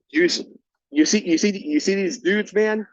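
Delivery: agitated. Retold or imitated. Telling the supervisor about the drinkers, worked up.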